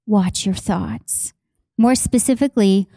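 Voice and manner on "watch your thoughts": softer, slow echo of watch your thoughts; hushed slow echo; soft, slow repeat. Acted. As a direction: let it sink in quietly. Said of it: "is watch your thoughts".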